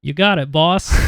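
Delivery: lightly put-on obliging henchman voice; Morthos doing a voice. Morthos agreeing to let Fergus lead, lightly put-on voice. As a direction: answer the boss in a slightly put-on voice. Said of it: "That's Morthos doing a voice".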